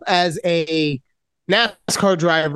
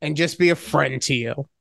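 slow, syrupy imitation of an overly sweet friend; hammed-up gushing greeting, slow; mock sappy friend. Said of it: "You came out and you saw me and you said".

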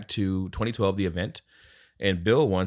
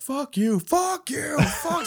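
high repeated fuck you; mock swearing dad; much slower than usual. Dad cursing the ref, high mock rage. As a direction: spit it out over and over. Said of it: "he's like".

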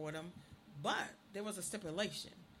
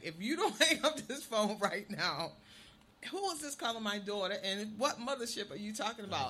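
father scolding; 3 semitones higher, 4 dB louder than usual. Retold or imitated. Father scolding caller on phone.

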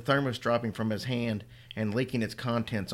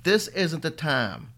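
desperate scold; 5 semitones higher, 4 dB louder, slower than usual. Acted. Mother pleading in despair.

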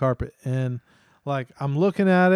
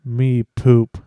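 imitated toddler declaring it louder; 3 semitones lower, 6 dB louder than usual. Son confesses to dad in the bedroom, imitated louder voice. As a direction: say it up louder, in baby talk. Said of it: "Jace says in a louder voice".

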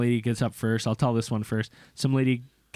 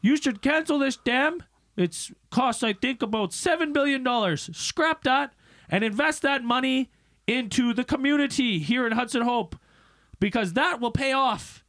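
a hint of a country beekeeper; imitating a hillbilly beekeeper at a town hearing; 12 semitones higher than usual. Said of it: "he goes".

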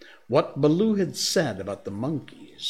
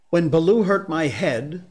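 put-on high, eager boyish voice; a lively jungle boy, pleading and proud; excited man cub; 7 semitones higher, 7 dB louder than usual. Mowgli speaking.

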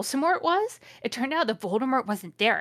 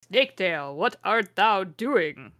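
second try at a stately archaic villain, more contained; Voldemort; slower than usual. Acted. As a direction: stretch the question out very slowly. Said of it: "called Voldemort".

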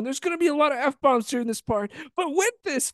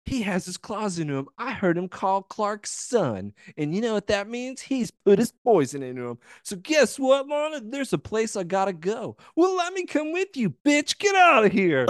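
hammy stage actor; 2 semitones lower than usual. Retold or imitated. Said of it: "Here's another overacting part".

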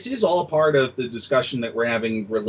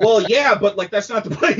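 laughing retort; 9 semitones higher, 4 dB louder than usual. Retold or imitated. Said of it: "And it's like".

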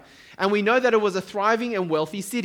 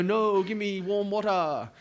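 drawn-out, badly faked Chinese accent; 3 semitones higher, slower than usual. Chinese parent turning down cold water, in a badly faked accent. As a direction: put on a slow, clumsy Chinese accent. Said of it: "that was a bad accent".

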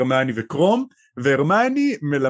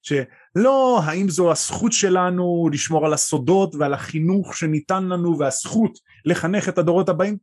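annoying political answer; 4 semitones higher than usual. Retold or imitated. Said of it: "תשובה פוליטית מעצבנת כזאת".

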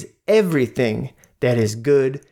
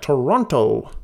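put-on American announcer accent. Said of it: "He says it like that".

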